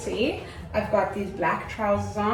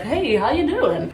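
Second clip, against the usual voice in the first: higher, drawn-out American-accented greeting; 4 semitones higher than usual. Shown as a demonstration. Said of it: "you have to do it in an accent".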